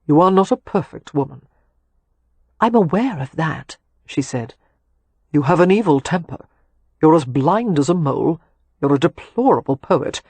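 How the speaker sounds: lover's playful scolding after lovemaking; Leo, teasing. Acted. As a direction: tease her fondly, building the list. Leo teasing Catherine in bed.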